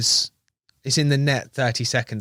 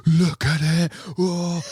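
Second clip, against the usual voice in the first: amazed exclaim; 5 semitones higher, much slower than usual. Retold or imitated. Friend on the bank showing off the fish, amazed. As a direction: marvel at the catch like an excited mate.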